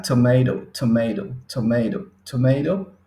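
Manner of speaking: American tomato with t as r, tomeɾo; American flapped tomato; American accent. Shown as a demonstration. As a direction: acento americano, tomato con r. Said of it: "Y este acá".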